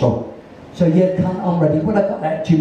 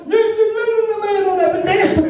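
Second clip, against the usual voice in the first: quoted producer; 13 semitones higher than usual. Retold or imitated. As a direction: ham up the producer showing him the door. Producer returns, quoted dismissal.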